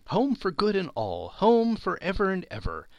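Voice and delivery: put-on high-pitched, gleeful child; brimful of glee. A narrator's reading. Little sister promising her brother home for ever, gleeful. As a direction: lift the pitch with happy insistence. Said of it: "brimful of glee".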